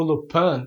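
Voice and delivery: "Lupin" tried French-style, loo-PAN; "Lupin" ending in "an" instead of "een"; attempted French pronunciation. Shown as a demonstration. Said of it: "porque eu não sei falar francês".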